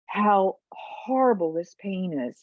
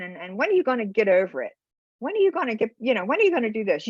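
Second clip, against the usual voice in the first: mock nagging, hurried; retold impatient nagging; much faster than usual. So-called friends telling a grieving mom to get over it, impatient. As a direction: imitate pushy friends, fast.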